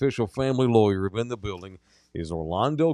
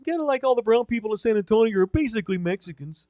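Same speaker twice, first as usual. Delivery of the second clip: very high, creepy Wisconsin voice; chirpy high killer voice, staying in character; Ed Gein character; 10 semitones higher than usual. Acted. Host staying in his killer character for the cohosts.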